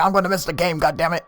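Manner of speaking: very high mock griping; whine-yell it at a high pitch; exasperated complaint. Man worried about missing the game, mock exasperated. Retold friend complaining mid argument.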